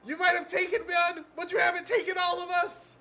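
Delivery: high, loud nerdy zealot vowing revenge. Acted. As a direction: shout defiance like a fired-up nerd. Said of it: "you were gonna use this nerdy voice".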